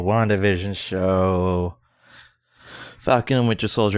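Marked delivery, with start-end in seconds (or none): 0.0-1.8 slow, drawn-out mock disinterest; mock unimpressed. Rolling their eyes at Marvel show announcements, mock unimpressed. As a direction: drag out the show title as if unimpressed. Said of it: "we all kinda rolled our eyes at".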